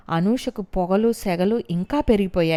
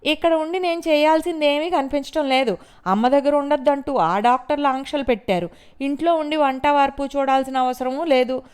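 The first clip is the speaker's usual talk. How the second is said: high, loud scornful sarcasm; mocking retort, higher and louder; sarcastic; 6 semitones higher, 5 dB louder than usual. A narrator's reading. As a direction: sneer at her husband's family. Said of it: "వ్యంగ్యంగా అంది".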